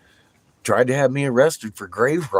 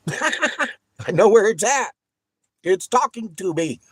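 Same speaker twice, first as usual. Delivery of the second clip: excited with laughter; 13 semitones higher, 4 dB louder than usual. Retold or imitated. Retold excited discovery, laughing.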